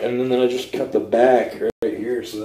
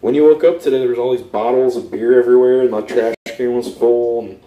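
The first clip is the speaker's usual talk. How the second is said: louder and faster, heated complaint; calm turning angry; 3 dB louder, faster than usual. Real, not acted. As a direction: defend yourself, getting heated. Argument over camera and trash.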